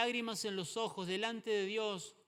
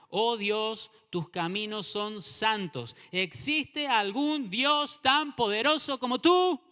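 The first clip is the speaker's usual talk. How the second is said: fervent psalm reading; 8 dB louder than usual. Acted.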